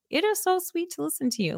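high, soft, wobbly old man imitation; little old man voice. Podcaster imitating an old listener's fan message, in a high, soft old man voice. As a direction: put on a sweet old man for the fan's praise. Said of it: "I guess that was my little old man voice".

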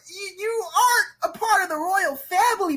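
high-pitched, incredulous protest; comic outrage. Real, not acted. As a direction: cry it out in exasperated disbelief.

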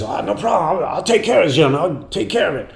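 breezy promise to fix everything; imitating a musician. The musician calls the band, breezily promising to pay. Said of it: "and he says".

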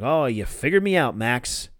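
mock-sarcastic retelling, pitch up, bigger yeah; lightly imitating a sarcastic confession. Sammy mocking Max with a fake confession, sarcastic. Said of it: "Sammy goes sarcastic".

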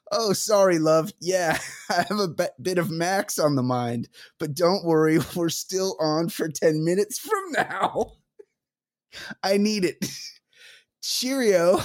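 badly faked British accent, breaking into giggles; mock British lilt with stray laughs; revolting British accent. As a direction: ham up a British lover, barely holding it together. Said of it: "Revolting British accent".

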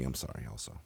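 softly contrite. Acted. Mock apology list.

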